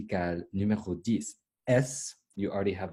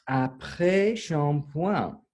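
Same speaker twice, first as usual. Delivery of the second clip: "Après shampoing" slow, higher, in one phrase; modelling pronunciation; 5 semitones higher, much slower than usual. Shown as a demonstration. Teacher gives the class "Après shampoing", slow higher model. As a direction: say "Après shampoing" slowly and raised.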